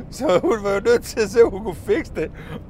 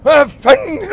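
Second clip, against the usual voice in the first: loud, high shocked curse; a father stepping in a puddle of pee; dad's angry outburst; 10 semitones higher, 12 dB louder, slower than usual. Retold or imitated. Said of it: "så siger min far". (far der bander højt og chokeret)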